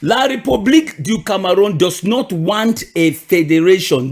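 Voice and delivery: a deliberate repeat, every word weighed; emphatic repeat of the point; repeat very slowly. Shown as a demonstration. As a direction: lay it out word by word for them. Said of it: "I will repeat this very slowly".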